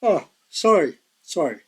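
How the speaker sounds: mid-yawn apology. Real, not acted. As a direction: talk through a yawn. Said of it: "Yawning here".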